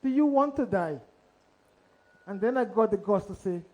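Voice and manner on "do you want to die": higher, ominous repeat of the caller's question; menacing caller. Retold or imitated. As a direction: echo the Russian caller's threat, drawing out "want". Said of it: "asking the same question".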